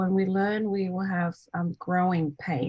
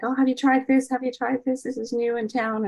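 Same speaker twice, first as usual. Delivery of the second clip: higher-pitched, lightly excited retold chatter; imitating eager siblings; 5 semitones higher than usual. Siblings offering new treats to the family, imitated eagerness.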